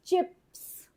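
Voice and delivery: चीज़ called out high and loud; teacher's call. Shown as a demonstration. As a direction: announce चीज़ brightly to the class. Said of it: "teacher announces the blended word". (ऊँची आवाज़ में चीज़)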